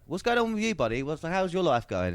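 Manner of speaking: imitating a matey friend; chummy high voice. Adam chatting up driver.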